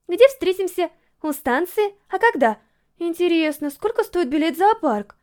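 put-on cheerful girl firing questions about the outing; cheerful chirping. A narrator's reading. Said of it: "весело щебетала Юрика".

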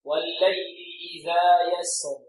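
slow, measured tajweed chant; Quran recitation. Shown as a demonstration. Teacher leads students in repeat-after-me recitation, slow tajweed chant. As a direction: intone it on a steady note with long vowels.

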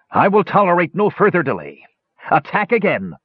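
high, shrill furious commander; a hunchback lord shrieking at failed soldiers; shrill scream. A narrator's reading. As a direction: scream the order at the troops. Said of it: "his voice a shrill scream".

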